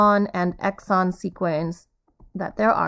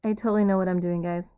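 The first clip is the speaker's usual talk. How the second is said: fast, breezy fake confidence; 2 semitones lower, 3 dB quieter, much faster than usual. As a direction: rush it like you've got it handled. Tech failing, teacher jokes.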